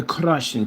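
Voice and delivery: "crushing" drawn out with a rolled R. Shown as a demonstration. Playing with the Russian accent, "crushing" with rolled R. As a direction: roll your tongue slightly on the R of "crushing". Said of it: "they roll their tongue a little bit".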